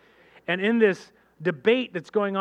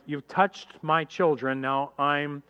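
stern God; 4 semitones lower than usual. Retold or imitated. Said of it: "God's going like".

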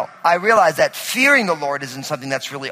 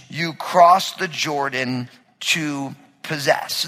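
scripture reading; slower than usual. Acted. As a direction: read the passage aloud to the church with weight.

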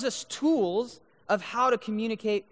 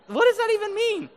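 high, mock-baffled question; baffled disbelief; 13 semitones higher, 6 dB louder than usual. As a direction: throw it up high in comic confusion. Mocking no cap slang.

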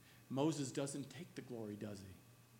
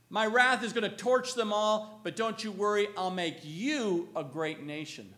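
booming voice of God; 4 semitones higher, 6 dB louder than usual. Acted. God speaks wrath, then promise.

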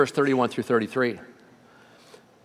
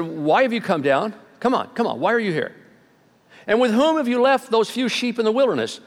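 put-on a mild scolding, higher, from an older brother; angry older brother; 6 semitones higher than usual. Oldest brother scolding David for coming, mildly angry. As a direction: chide him like an annoyed big brother. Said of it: "Eliab's anger burned against David".

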